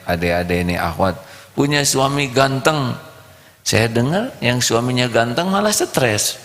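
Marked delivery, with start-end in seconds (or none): 1.6-3.0 higher mock dreamy wish; wishful girl. Preacher mimics girls wishing for handsome husband, lightly voiced. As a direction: swoon a little. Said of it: "ini karena santrinya".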